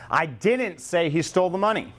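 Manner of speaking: didn't leaned on hard; a denial with weight on didn't; stress on didn't. Shown as a demonstration. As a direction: punch the word didn't. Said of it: "What's that telling you".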